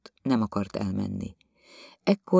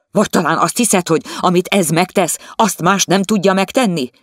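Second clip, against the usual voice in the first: louder, higher mocking question; 8 semitones higher, 8 dB louder than usual. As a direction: taunt her for the servant. The husband mocks her. (gúnyos, hangos kérdés)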